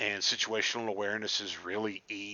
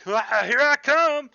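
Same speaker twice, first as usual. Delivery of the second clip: eager charge; 13 dB louder, slower than usual. Retold or imitated. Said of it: "and I'm like".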